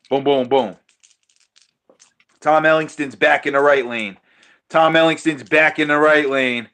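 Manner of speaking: live race commentary; play-by-play. Acted. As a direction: call the race like an announcer. Calls the dice race live.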